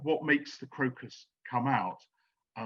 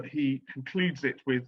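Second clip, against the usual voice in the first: usual speaking voice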